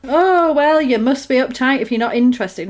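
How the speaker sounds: hammed-up entitled guy; mock creep. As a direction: parody a pushy boy's excuse.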